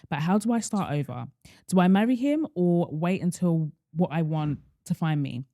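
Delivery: measured read-out of a listener's dilemma; careful, composed reading voice; reading a letter aloud. Acted. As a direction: read the letter evenly, phrase by phrase.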